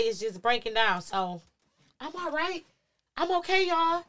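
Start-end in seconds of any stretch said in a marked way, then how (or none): 2.0-4.0 higher-pitched, insistent retold reassurance; brave reassurance. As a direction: act out putting on a brave face for family. Reassuring crying family in court.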